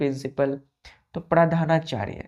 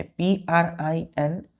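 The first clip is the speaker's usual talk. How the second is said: spelling out letters; much slower than usual. Shown as a demonstration. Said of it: "ध्यान दीजिए".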